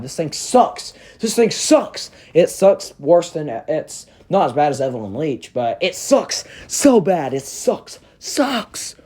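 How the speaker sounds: carried-away rant. Real, not acted. Reviewer trashing the new prop, getting carried away. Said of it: "I'm just getting carried away".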